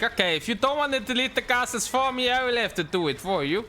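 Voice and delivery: a light mock foreign accent, maybe Italian, as Brew; Brew's put-on accent. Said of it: "talking like that to impersonate Brew".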